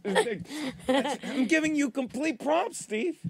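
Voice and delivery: slow, laughing through words. Real, not acted. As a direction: still laughing as you praise. Laughing praise.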